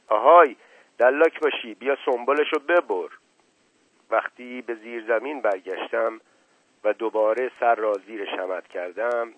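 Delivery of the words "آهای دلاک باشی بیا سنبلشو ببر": loud jeering call to the barber; mocking call out. Boy jeering loudly at the barber. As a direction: yell it out as a taunt.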